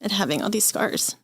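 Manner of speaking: fighting tears while admitting anger at herself; emotional. Real, not acted. Patient recounting breaking down, tearful and unsteady. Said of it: "I'm gonna get very emotional".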